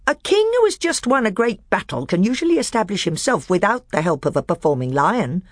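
high, sly dwarf voice pitched well up; a bitter dwarf testing the council; high, crafty dwarf; scheming dwarf. Acted.

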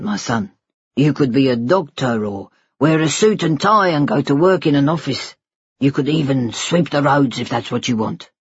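tender father. Acted. Father promising his baby son a future, tender.

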